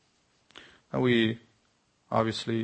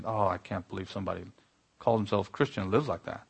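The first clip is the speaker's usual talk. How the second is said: mock self-righteous; 3 semitones lower, 4 dB quieter, faster than usual. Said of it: "point a finger at somebody's immorality and say".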